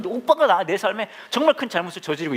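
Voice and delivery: retold angry outburst. Sister blaming her brother for ruining her life, mock angry. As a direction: act out an indignant sibling firing back. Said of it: "막 화를 내면서".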